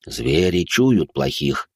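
very slow, lightly voiced old man; a hint of a wise old man. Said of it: "сказал он".

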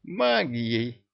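perking up at the word; pleased surprise. Acted. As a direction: brighten on магией. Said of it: "обрадовался чему-то Шахрияр".

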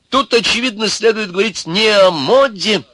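put-on very high, loud old man's pronouncement; important, agitated. A narrator's reading. Sage correcting the devil, self-important and agitated. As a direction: hold forth pompously, worked up. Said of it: "заговорил старик важно и взволнованно".

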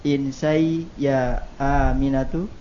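"Insai ya Aminatu" still rising at the end; question intonation. Real, not acted. Student failing to copy the correction, question intonation. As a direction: lift the end of "Aminatu" as if asking. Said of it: "diperbaiki nanti".

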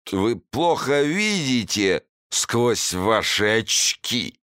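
put-on slow, high drunken jeer; drunk slurring. A narrator's reading. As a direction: drunk and spoiling for a fight. Drunk actor.

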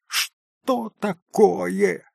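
high, slow, alarmed question; a girl alarmed by the news. A narrator's reading. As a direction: ask in sudden worry. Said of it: "закричала Лис уже тревожным голосом".

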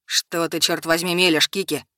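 ниже, с презрением; lightly voiced angry man. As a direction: dismiss her story with scorn. Simon denies angrily.

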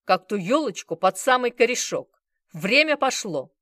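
loud, hard ultimatum, slowing on key lines. Acted. Bazarov giving the bar two minutes, loud threat. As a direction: lay down the terms with menace.

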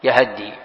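yahaddi for يهدي, open a after the h; fatha on ha. Shown as a demonstration. Teacher repeating the open-vowel reading, yahaddi for يهدي. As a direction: say يهدي with short a twice, then double d. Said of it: "قراءة فتح الياء والهاء".

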